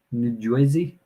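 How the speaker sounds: questioning attempt at a New Jersey accent; put-on New Jersey pronunciation. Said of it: "I'm butchering your, your accent".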